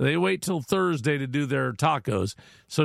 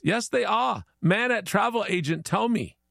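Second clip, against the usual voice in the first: higher-pitched broken English, mock Chinese accent; 5 semitones higher than usual. Chinese guy cites his travel agent, mock Chinese accent. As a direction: insist in a put-on Chinese accent. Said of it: "Chinese guy says".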